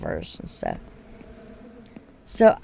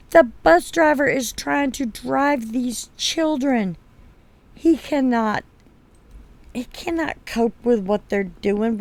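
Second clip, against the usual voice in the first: retold indignant rant; 3 semitones higher than usual. Mother telling off the school board about the bus, indignant and raised. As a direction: lay into the board, raised and deliberate.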